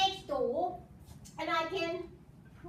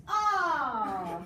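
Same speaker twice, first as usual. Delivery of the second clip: mock realization; 4 semitones lower, 5 dB louder than usual. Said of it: "you go".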